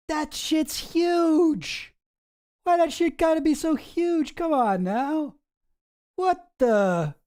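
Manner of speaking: high, slow squeaky mock outrage. A streamer squealing at giant sidebars, hammed-up disbelief. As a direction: squeal it out, appalled at the size.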